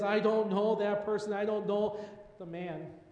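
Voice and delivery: loud, forceful denial with a curse; cursing denial. Acted. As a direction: spit it out as a curse. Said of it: "This time with a curse".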